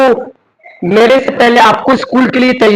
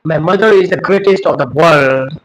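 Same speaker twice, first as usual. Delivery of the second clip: slow declaration; 4 semitones lower, much slower than usual. Real, not acted. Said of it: "slow declaration".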